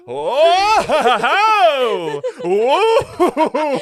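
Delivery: loud, high, drawn-out stage laugh; hammed-up ghoulish ho-ho; drama-school spook. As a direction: wail it like an overacting haunted-house actor. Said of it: "so drama school".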